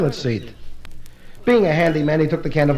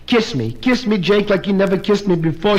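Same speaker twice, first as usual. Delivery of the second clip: passionate pleading; 2 semitones higher than usual. Acted. Wife in bed begging her husband for kisses, passionate. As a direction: plead for it with comic ardour.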